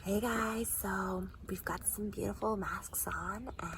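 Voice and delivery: very soft mock vlogger intro; imitating friend's vlogging. Imitating her friend's intro in masks, hushed mock vlogger. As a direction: do your friend's video voice, hushed. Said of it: "Is that really how I sound?".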